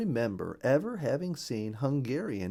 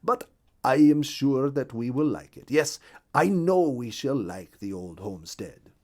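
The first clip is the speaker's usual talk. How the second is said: a lightly voiced partridge, louder and a bit higher; partridge character voice; 4 semitones higher, 7 dB louder than usual. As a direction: give the partridge a gentle, hopeful voice.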